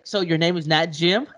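giggling through the question; laughing quote. Retold or imitated. Friend retelling a pirate joke, giggling.

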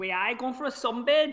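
mock Geordie with a rising end; amateur put-on Geordie; Geordie accent. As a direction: attempt a Geordie accent, badly. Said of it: "give me a Geordie".

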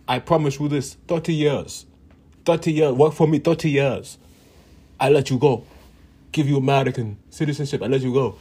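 a mock slick boss pitching a deal; mock salesman promise. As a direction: sell the promise big, hammering thirty years.

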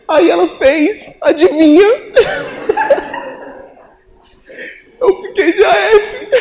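high, loud laughing-crying telling; recounting the surprise failure through laughter. Real, not acted. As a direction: tell the failure while cracking up.

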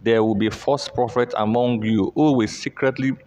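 rising preacher's voice, driving hard on key words; forceful scripture reading. Acted. Preacher reading Peter's warning to the church, forcefully. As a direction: proclaim the verses with building force.

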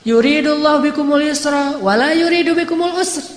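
emphatic preaching. Shown as a demonstration. Repeating the verse in preaching.

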